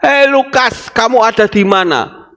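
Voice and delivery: high, ringing call by name; God calling by name. Acted. God calling Lukas by name, high and ringing. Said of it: "Dia panggil nama kita".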